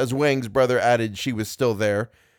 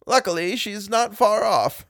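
lightly voiced priest, pitched higher; priest's voice; 8 semitones higher than usual. A narrator's reading. Priest scans the house for the devil, raised voice. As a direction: announce it in a raised, knowing priest's voice. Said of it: "looked all around and said".

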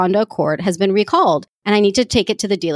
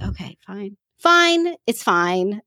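annoyed resignation; slower than usual. Real, not acted. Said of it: "I'm just annoyed".

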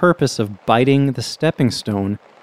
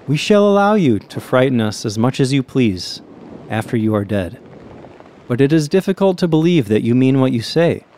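gentle, caressing. Acted. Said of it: "He replied very gently, almost caressingly".

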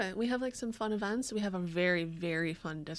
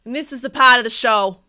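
put-on British accent; 14 dB louder than usual. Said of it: "in the authentic British accent".

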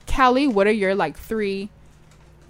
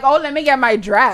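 giddy excitement; 3 semitones higher, 5 dB louder than usual. Retold or imitated. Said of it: "we was all like".

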